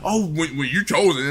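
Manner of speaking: low mock-spiritual voice; mockingly put-on low voice; mocking chosen talk. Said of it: "I hate when they talk like that".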